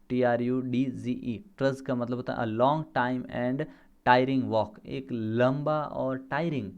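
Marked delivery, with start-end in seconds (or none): 0.1-1.4 slow spelling. Shown as a demonstration. Teacher spells out the word.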